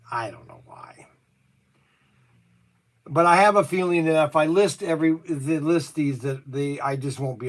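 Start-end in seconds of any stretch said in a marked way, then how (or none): 0.1-1.1 soft whispered aside, barely voiced; hushed whisper under the breath. Real, not acted. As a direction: breathe it out to yourself, unsure. Unsure muttering about ordering stock.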